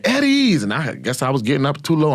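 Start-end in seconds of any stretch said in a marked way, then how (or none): 0.0-0.6 much higher, louder barked call; drill sergeant bark. Retold or imitated. Drill sergeant entering the laundry room, barked call. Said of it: "her motherfucking ass walking there".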